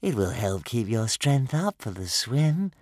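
slow, motherly coaxing; motherly dragon. A narrator's reading. Dragon urging food on swimmers, motherly. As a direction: coax them like a doting mother. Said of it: "in a motherly way".

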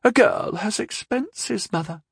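high, slow retort; shooting back. A narrator's reading. Daughter shooting back at her mother, high retort. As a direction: fire it back pertly. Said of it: "shot back".

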